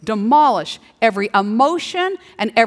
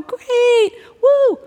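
high, bright whoop of fake enthusiasm; mock cheer; 12 semitones higher, 4 dB louder than usual. Greeting a friend's news with a high whoop.

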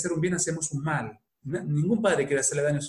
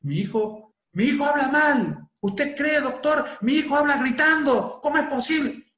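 mock worried parent; 8 semitones higher than usual. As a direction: play the exasperated mother pleading with the doctor. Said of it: "Entonces dice".

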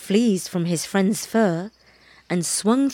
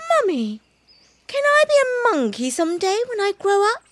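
high, fast little kitten voice; a tiny cub piping up eagerly; piped up; 12 semitones higher than usual. A narrator's reading. Baby cat pipes up to his mother, high and quick. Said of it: "Baby Bush Cat piped up".

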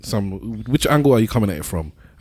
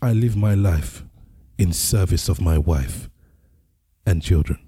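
slow, lowered bass delivery; put-on deep voice with long pauses; 4 semitones lower than usual. Shown as a demonstration. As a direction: turn up the bass, slow and measured. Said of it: "in my deep voice".

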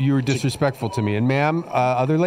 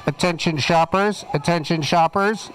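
store PA announcer, raised pitch; through a megaphone; 5 semitones higher than usual. Acted. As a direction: call it out over the intercom.

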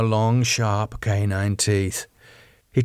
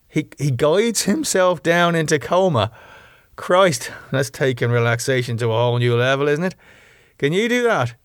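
put-on higher-pitched, disbelieving young vampire; incredulous Damo; 6 semitones higher than usual. Damo reacting to Rose's coma story, incredulous. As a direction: echo it back, amazed and doubtful.

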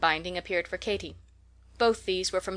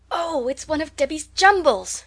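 much higher and louder delighted cry; delighted exclamation; 8 semitones higher, 7 dB louder than usual. A narrator's reading. Katy finding a cake in the box, delighted exclamation. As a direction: burst out with glee at the find. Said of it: "she exclaimed".

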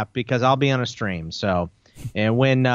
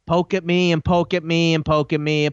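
aggravated rant. Real, not acted. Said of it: "make me even angry".

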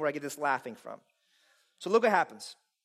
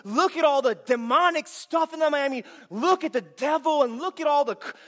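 mock panic; 6 semitones higher, 4 dB louder than usual. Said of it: "He's not up there like".

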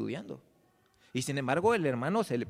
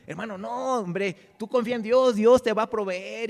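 louder, higher, urging him to trust; rally a doubting friend, voice raised and building; emphatic encouragement; 6 semitones higher, 6 dB louder than usual. Acted. Church brother reassuring a discouraged member, emphatic encouragement.

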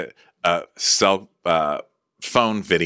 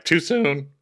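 higher, louder slow crying words; mock sob; 11 semitones higher, 5 dB louder, slower than usual. Danielle breaking down at being called mom, mock wailing. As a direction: wail it as a hammed-up sob. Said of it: "rocking back and forth".

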